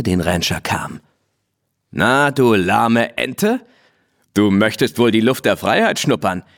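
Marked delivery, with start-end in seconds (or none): 1.9-6.4 a proud mustang mocking the tame mare; cocky wild mustang, teasing. Blackie voiced in story.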